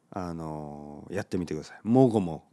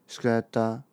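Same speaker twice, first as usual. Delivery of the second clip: high schooler mumble. Acted. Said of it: "高校生が友達と話す時に".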